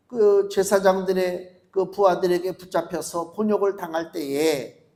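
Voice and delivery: ordinary delivery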